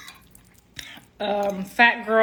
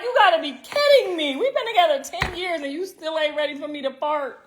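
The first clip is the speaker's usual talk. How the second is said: higher, exasperated disbelief; 5 semitones higher than usual. Retold or imitated. Wife to husband about farting after ten years, exasperated. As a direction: let him hear how fed up she is. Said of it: "I'm like".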